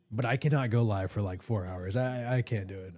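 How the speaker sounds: hoarse, losing my voice. Real, not acted. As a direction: voice worn out from talking. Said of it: "I'm already losing my voice".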